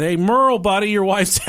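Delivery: retold holler through a door; calling out.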